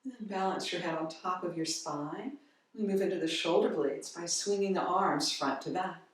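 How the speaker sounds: calm, unhurried guiding voice with long pauses; guided yoga instruction. Real, not acted. Yoga teacher leading a gentle head-circle warm-up, calm guiding voice. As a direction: ease them gently through each movement, softening as it goes.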